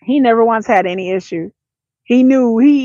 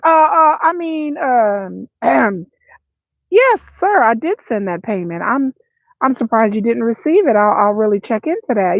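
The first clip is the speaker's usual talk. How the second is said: stammering, suddenly polite; flustered polite switch. Retold or imitated. Mother switching to polite after being caught. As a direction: cover up the anger, all sweet.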